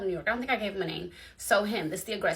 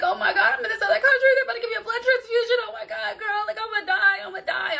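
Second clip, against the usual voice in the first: high, loud laughing-crying wail; hammed-up panicked sobbing; retold crying; 13 semitones higher, 6 dB louder, faster than usual. Retelling calling her friend in tears from abroad, high wailing sob. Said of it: "I'm crying".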